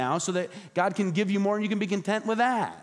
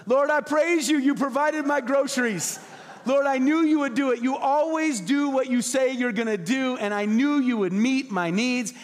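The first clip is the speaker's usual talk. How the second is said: joyful praise; 6 semitones higher than usual. Retold or imitated. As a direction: shout thanks to the Lord for the food. Woman praising over groceries.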